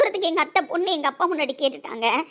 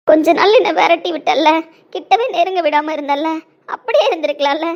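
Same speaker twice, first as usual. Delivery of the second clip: bitter reproach; 5 dB louder than usual. Acted.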